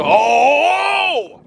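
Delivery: loud high surprised oh; excited oh. Real, not acted. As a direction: burst out in surprise. Fish caught.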